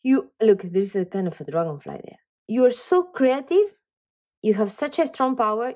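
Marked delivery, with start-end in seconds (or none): 2.5-5.7 slowed, raised, delighted compliment; excited. Real, not acted. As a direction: lift the voice and savour each word. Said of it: "I'm getting excited about you".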